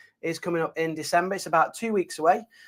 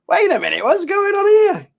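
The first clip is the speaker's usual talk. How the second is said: mock surprise; 14 semitones higher, 8 dB louder than usual. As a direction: call it out in playful, exaggerated disbelief. Feigned surprise at gym-goers in chat.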